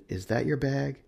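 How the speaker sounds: endearing. A narrator's reading. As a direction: ask it sweetly, as a friendly announcer would. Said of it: "seems endearing".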